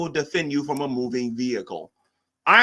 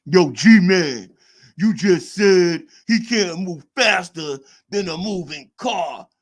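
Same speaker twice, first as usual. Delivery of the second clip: louder mock street voice, slowed; lightly hammed-up street voice quoting a chatter; ghetto voice; 7 dB louder, slower than usual. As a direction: put on a mocking tough-guy street voice. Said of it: "get that ghetto voice".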